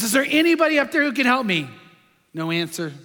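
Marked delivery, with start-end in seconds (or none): 0.0-1.7 higher-pitched pretend cry for help; retold plea in a raised pitch; desperate mock scream. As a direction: call upward like a stranded man, not full force. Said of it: "he screams in desperation".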